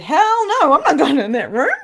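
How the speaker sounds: high, loud outburst of refusal; emphatic refusal. Retold or imitated. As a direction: blurt it out loud and high, half laughing. Retold refusal at the room.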